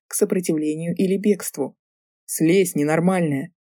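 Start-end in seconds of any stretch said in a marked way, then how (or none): 2.3-3.5 mild yell. Acted. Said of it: "заорал он".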